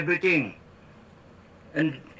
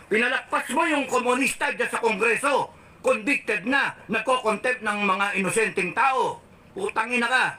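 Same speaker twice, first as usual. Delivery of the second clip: heated, pitched-up tirade, cursing; angry rant; 4 semitones higher than usual. Real, not acted. Ranting at the president, heated and pitched up. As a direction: spit out the insults in real anger. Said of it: "gigil ako eh".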